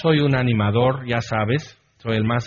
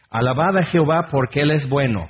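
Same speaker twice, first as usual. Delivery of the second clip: measured scripture recitation, even and declamatory; responsive psalm reading. Acted. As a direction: proclaim each verse steadily for a congregation to answer.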